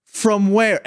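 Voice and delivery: incredulous. Real, not acted. Incredulous repeated questions.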